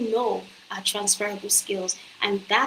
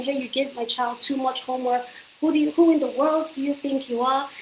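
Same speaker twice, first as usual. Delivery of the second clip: mock yell from an indignant parent, pitched higher; imitating an angry parent complaining about homework, higher; 4 semitones higher than usual. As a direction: play the furious parent scolding the teacher, higher. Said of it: "she's yelling".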